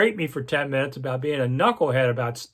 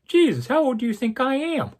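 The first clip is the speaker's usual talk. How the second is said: mock indignant; 10 semitones higher than usual. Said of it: "I'm thinking".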